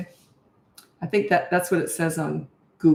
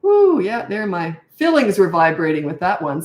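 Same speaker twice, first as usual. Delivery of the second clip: mock surprise. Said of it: "I'd just say".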